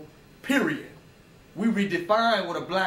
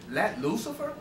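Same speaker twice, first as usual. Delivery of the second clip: higher voice rising on LUCIFER; mock scandalised question; 4 semitones higher than usual. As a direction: echo it as a startled listener's question. Voicing scared Christians' reaction to title.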